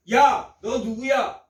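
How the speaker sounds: slow, drawn-out rude challenge; retold contemptuous challenge; disrespectful address. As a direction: talk down to them, dragging the words. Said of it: "함부로 낮추어 부르는 말입니다".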